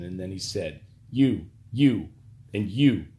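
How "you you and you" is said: louder, pointing out each man; commanding. Acted. Pena ordering the guards to carry it away, louder and commanding.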